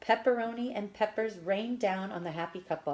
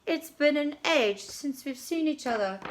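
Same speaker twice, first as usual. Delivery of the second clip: gushing diva; 7 semitones higher, 4 dB louder than usual. A narrator's reading. Diva greets old friend.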